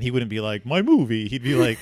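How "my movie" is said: hammed-up vampire count, louder; mock accent, a bit loud; Count Chocula. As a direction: ham it up like a cartoon count. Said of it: "he doesn't talk like Count Chocula".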